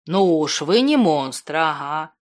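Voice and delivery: slow, skeptical, a little chuckle in it; doubtful smirk. A narrator's reading. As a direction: say it with a wry disbelieving grin. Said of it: "недоверчиво усмехнулся Платон".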